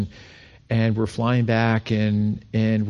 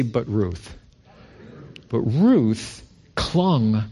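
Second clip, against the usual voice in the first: BUT drawn out slow, RUTH leaned on; call and response; 2 semitones lower, much slower than usual. Shown as a demonstration. Preacher to congregation, slow emphatic refrain. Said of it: "Everybody say".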